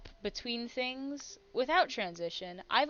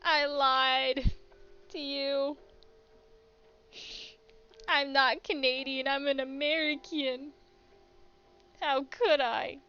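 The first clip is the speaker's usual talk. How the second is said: angry; 3 semitones higher, 4 dB louder than usual. Acted.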